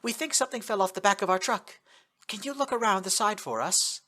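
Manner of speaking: high, put-on Russian accent; fake Russian accent. Kotori tricking soldiers in a fake Russian accent. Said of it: "in the best accent she could muster".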